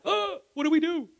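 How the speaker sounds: high, loud pleading cry; a crowd crying out to Peter, high and desperate. Retold or imitated. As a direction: cry out for help in panic.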